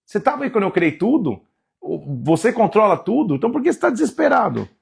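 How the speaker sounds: calm Job down from above; God gently rebuking a desperate Job; God speaking to Job. Acted. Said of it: "ele fala".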